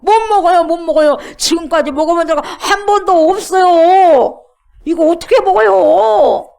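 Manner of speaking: loud, high shocked refusal; Peter protesting. Acted. (깜짝 놀란 베드로처럼 크게 거절하며)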